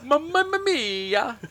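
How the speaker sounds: high, slow stretched exclamation; mock Italian cry. Cohost echoing the hammy catchphrase, slow high mock cry. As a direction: draw out the catchphrase.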